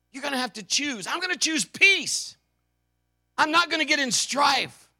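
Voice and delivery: loud, high, driving sermon voice; full-force preaching. Acted. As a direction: preach it out over the congregation.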